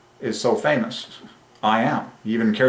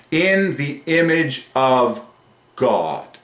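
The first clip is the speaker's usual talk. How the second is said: stretched-out reverent declaration; awed proclamation; 3 semitones higher, much slower than usual. Real, not acted. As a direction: hold each word, pause before God. Goosebumps, proclaims phrase again.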